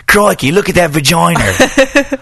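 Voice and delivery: mock Aussie crocodile hunter, drawn out; a hammed-up Australian accent, slow; bad Australian accent. Host imitating a podcaster's bad Australian accent. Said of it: "horrible Australian accent that he's doing".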